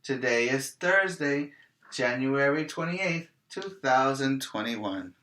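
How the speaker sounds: teacher modeling the date. Shown as a demonstration. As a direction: lead the class in saying it. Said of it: "Say it with me".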